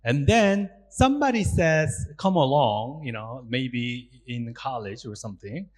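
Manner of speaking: normal talking voice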